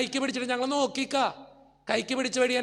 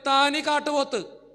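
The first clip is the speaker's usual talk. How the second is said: teasing name-calling; 2 semitones higher, slower than usual. Retold or imitated. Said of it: "ഞാൻ എപ്പോഴും പറയും".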